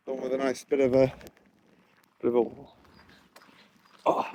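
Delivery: breathing hard while talking; out of breath from the climb; shallow breathing. Real, not acted. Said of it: "sorry about the breathing".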